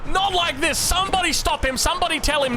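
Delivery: high-pitched, horrified caster's shout; dismayed outburst. Real, not acted. Caster begging somebody to stop Don's terrible upgrade, dismayed outburst. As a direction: cry out in theatrical disbelief.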